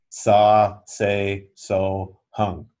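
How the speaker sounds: sa, se, so, hung said slowly and evenly, hung falling at the end; mantra syllables. Shown as a demonstration. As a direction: demonstrate the last set syllable by syllable. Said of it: "Third set of four syllables".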